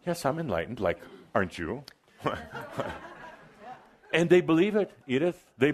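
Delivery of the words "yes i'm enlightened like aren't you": nonchalant. Shown as a demonstration.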